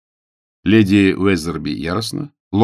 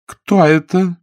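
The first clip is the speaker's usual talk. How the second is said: high, loud call through the door; lady's voice through a door; 11 semitones higher, 6 dB louder, slower than usual. A narrator's reading. Lady behind the door calls out, high and loud. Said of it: "сказала леди за дверью".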